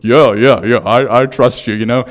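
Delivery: loud, nervous mock reassurance that fades; scared. The actor answering the survivalist on the cliff, mock-scared and loud. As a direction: imitate a frightened man forcing himself to agree. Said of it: "scared as ever".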